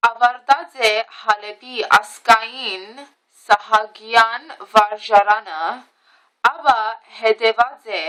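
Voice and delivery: brisk, careful read-aloud of a printed bio; reading aloud in Armenian. Real, not acted. Reading her great-uncle's book bio to viewers, brisk read-aloud. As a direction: read the Armenian text out steadily, a little rushed. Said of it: "So I'm gonna read this in Armenian".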